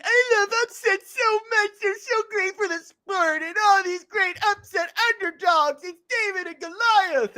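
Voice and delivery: high, slow, whiny fan gushing over upsets. Retold or imitated. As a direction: whine it out like a starry-eyed fan. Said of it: "everybody's like".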